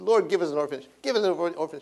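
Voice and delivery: mildly pleading prayer, retold; re-enacted plea, lifting on the repeat; retold begging. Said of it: "I prayed, I begged".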